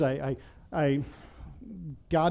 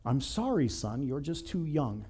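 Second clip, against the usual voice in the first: lower, slower, softened pastor voice; pastor's gentle refusal; 4 semitones lower, 6 dB quieter than usual. Retold or imitated. Pastor turning a boy away from communion, gentle refusal. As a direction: let him down quietly and slowly. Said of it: "And the pastor says".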